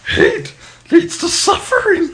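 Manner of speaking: slow, rising, high trailer voice; dramatic trailer announcer. Retold or imitated. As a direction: build it up like a movie trailer. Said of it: "the typical C W announcer".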